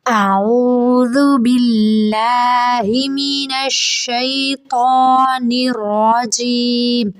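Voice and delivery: slow, drawn-out chanted recitation; joined-up recitation. Shown as a demonstration. Teacher recites the words joined together. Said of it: "را کو منہ بھر کے موٹا پڑھیں گے".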